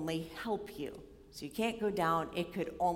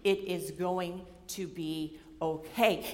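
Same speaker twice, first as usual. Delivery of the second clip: grandfatherly reassurance; 3 semitones lower, slower than usual. Retold or imitated. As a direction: settle her down like a grandfather. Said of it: "his grandfatherly way".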